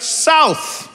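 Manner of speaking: a high, falling one-word answer; clipped local answer. Retold or imitated. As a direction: say it like it's obvious. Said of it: "people are just like".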